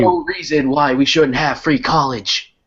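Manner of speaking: lightly voiced old-time TV announcer; a hint of a 1950s newsreel Bernie; Bernie Sanders 1950s TV voice. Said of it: "in that nineteen fifties ass, uh, T V voice of his".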